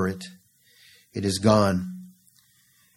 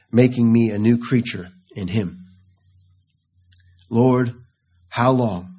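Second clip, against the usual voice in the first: mild crying out. Acted. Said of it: "David cries out".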